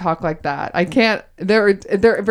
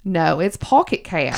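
put-on Southern accent; 2 semitones lower than usual. Host prods co-host for the next answer in a Southern accent. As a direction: prompt her in a Southern accent. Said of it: "do it in this accent".

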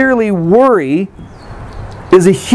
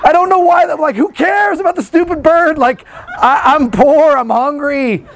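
higher, laughing exasperation; hungry listener scoffing at being told about birds; exasperated objection; 5 semitones higher than usual. Pretend.

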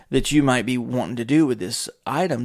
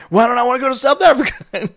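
raised, louder baffled voice; high indignant quote; 12 semitones higher, 8 dB louder than usual. Retold or imitated. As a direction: play it high and offended. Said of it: "He's like".

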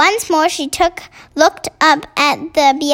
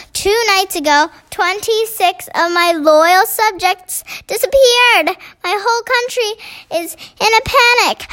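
fretful Queen of Sweden; 5 semitones higher than usual. Acted.

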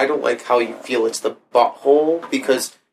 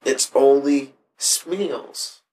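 mock Indian accent; much slower than usual. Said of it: "she would say in an Indian accent".

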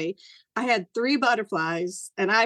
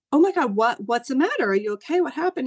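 raised pitch on a startled check-in; alarmed concern; 4 semitones higher than usual. Retold or imitated. Wife finds husband out of breath, alarmed. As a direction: re-enact worried, rapid-fire questioning.

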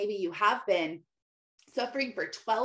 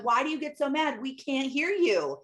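put-on higher, whiny kids protesting mom; 5 semitones higher than usual. Kids protesting to mom, higher whiny voice. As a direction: kids pleading they didn't hear. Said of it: "They're like".

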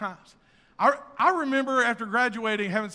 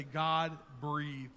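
hushed reverent words; 6 semitones lower, 8 dB quieter than usual. Shown as a demonstration. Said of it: "or other versions say".

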